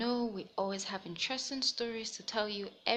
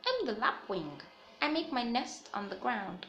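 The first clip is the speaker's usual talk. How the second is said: put-on lively storybook read-aloud for young listeners; reading to children. A narrator's reading. Teacher reading a picture book to the class, animated storytelling. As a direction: tell it brightly, like story time.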